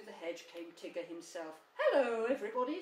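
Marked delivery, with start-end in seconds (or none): 1.8-2.8 big, loud, high hello; cheerful. A narrator's reading. Tigger coming through the hedge to everybody, cheerful. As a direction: burst in with a hearty greeting. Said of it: "said Tigger cheerfully".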